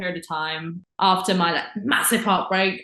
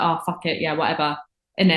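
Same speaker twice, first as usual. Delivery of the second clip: casual London accent. Shown as a demonstration. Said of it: "I'm more like".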